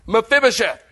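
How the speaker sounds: stern call of "Mephibosheth"; harsh call. Shown as a demonstration. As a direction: call the name like a summons. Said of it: "tone is everything".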